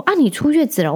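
mock his surprised question; imitating a nosy old man. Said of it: "然后他就说". (模仿阿伯惊讶地问，略带嘲讽)

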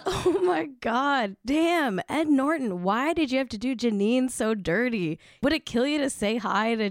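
high, laughing mock outrage. Real, not acted. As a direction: crack up, then scold him playfully. Host cracks up at Norton story.

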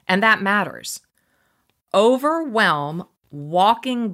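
slow, deliberate book reading with weighty pauses; reading aloud. Real, not acted. Host reads a book passage to listeners, deliberate reading. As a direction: read it out so each phrase sinks in.

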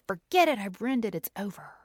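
high, loud mock outburst that falls away; imitated giving up. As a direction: throw up your hands in mock defeat, starting high and loud. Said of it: "throw my hands up and say".

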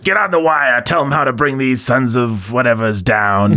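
lightly voiced commanding general giving orders; a hint of a gruff movie general rallying troops; quick, half-serious officer command; Robert Loggia general. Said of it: "the general in Independence Day".

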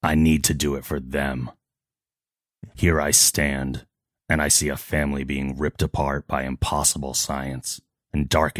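lightly voiced solemn hero; measured, earnest confession in dramatic pauses; Batman. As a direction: play the grave vigilante with restraint. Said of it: "I don't get to voice act Batman".

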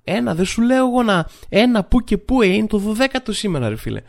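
high, exasperated waiter calling to the cook; imitated yelling. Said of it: "αρχίζει να φωνάζει".

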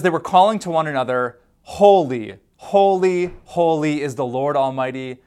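loud, ringing proclamation of holy; proclaiming angels. Acted. Pastor reading the angels' cry: loud and proclaiming. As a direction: call it out like angels shouting praise.

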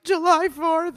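imitating. She imitates the comedian's punchline, squeaky. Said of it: "I was like".

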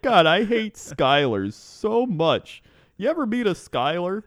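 hammed-up Canadian driver accent. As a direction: gripe emphatically in a put-on Canadian accent. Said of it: "need you to use that accent".

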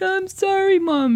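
imitating her small shocked self; scared little girl. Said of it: "I'm like".

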